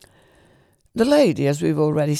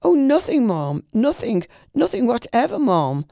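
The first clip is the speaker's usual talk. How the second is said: earnestly; 7 semitones higher than usual. A narrator's reading. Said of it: "said Mister Pickwick earnestly".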